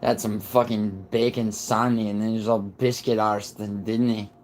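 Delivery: put-on rehearsing a Scottish accent; amateur stab at Scottish. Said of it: "trying to get my Scottish accent right".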